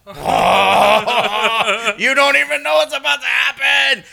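high, loud laughing taunt; gleeful tease. Retold or imitated. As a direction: taunt him, knowing what's coming. Teasing coworker who'll be shocked.

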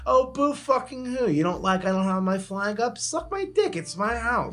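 mock tirade at neighbor. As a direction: tell the nosy neighbor off, voice climbing high. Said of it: "I just like".

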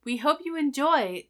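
lightly voiced polite robot. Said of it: "they sound like robots".

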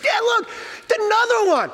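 put-on very high, loud child; a son spotting another cub; thrilled kid voice. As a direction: squeal at the new cub. Son excited at third cub.

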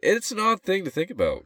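very high falsetto squeak; high-pitched voice. Shown as a demonstration. Joking about voice drops, high squeaky voice. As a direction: pitch the whole line way up high. Repeats own line in cracked-high voice.

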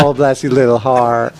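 slow, mock-sweet Southern "bless your little heart"; sweetly mocking like a Southern lady; sugary Southern. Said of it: "that means, like, F you".

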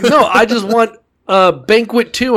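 mock queen insisting on a sequel; hammed-up coy request. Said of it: "Like, like".

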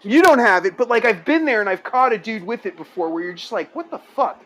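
usual speaking voice

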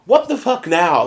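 a hammed-up irritated snap at mom; mock snappy irritation. Daughter snapping at her bored mom, mock irritated. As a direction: play it short-tempered, half joking. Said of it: "I probably sound so emotionally abusive".

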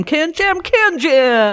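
booming monster truck announcer. Retold or imitated. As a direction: hype it like a truck rally ad. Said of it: "it's like a monster truck commercial".

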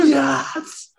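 ecstatic high-pitched cheer; re-enacted victory yell, pitched right up; losing his mind. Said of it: "I was losing my mind going".

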